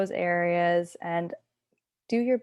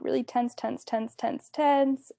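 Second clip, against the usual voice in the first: higher-pitched, rhythmic urging; gently insistent repeated cue, pitched up; urging tension; 5 semitones higher than usual. Shown as a demonstration. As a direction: coach them to hold the squeeze. Coaching muscle tensing before release.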